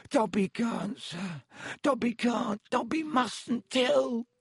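high, panicky elf squeal; very high, desperate elf squeak; squealing house-elf. A narrator's reading. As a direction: squeal your refusal as a little elf. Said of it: "squealed the elf".

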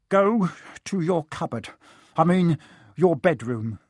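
out of breath, wheezy; wheezing. Acted. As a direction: wheeze the words out after a fight. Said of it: "he wheezed at Harry".

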